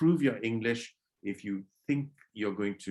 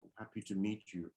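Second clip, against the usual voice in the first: much softer, withdrawn greeting; pulling away; 3 semitones lower, 12 dB quieter than usual. Shown as a demonstration. Teacher showing a greeting while pulling away. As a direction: shrink back as you say it. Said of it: "You're pulling away".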